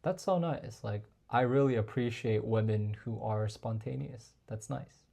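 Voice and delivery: soft, sincere praise; quietly appreciative; gently approving; sincere compliment. Shown as a demonstration. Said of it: "give her a compliment around that".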